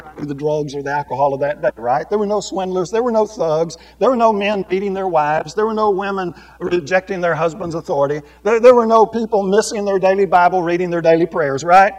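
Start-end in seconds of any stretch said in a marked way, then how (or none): 2.1-11.9 rising into loud preaching, higher and higher; building sermon. Real, not acted. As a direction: pile it on, each line louder. Preacher lists sins, building.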